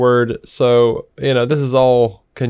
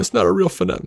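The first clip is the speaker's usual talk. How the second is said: high-pitched griping imitation; mocking fan complaint; mock complaining fan; 7 semitones higher, 4 dB quieter, much faster than usual. Mimics complaining fans.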